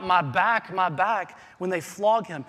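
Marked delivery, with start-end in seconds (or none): 0.0-1.4 mock pained cry. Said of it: "he doesn't cry out".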